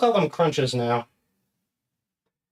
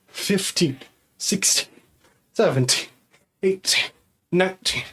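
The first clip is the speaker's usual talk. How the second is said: panting while counting squats; out of breath; 2 semitones lower, slower than usual. Real, not acted. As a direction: count between heavy breaths. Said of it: "I'm out of breath".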